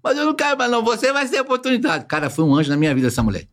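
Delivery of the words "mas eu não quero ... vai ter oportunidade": higher-pitched insistent boss lady; dona Olga insisting. Retold or imitated. Dona Olga insisting the boy stays, higher pitch.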